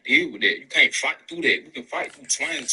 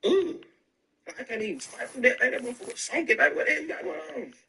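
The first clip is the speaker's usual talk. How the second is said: much higher, recoiling from a bad smell; disgusted reaction; 9 semitones higher than usual. Describing funk to friends, higher mock disgust. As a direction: squeal it out like the stink hits you. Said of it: "you gonna".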